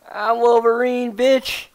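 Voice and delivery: high, loud snarling boast; Wolverine voice. Acted. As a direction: snarl it like a feral fighter. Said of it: "that was my Wolverine impression".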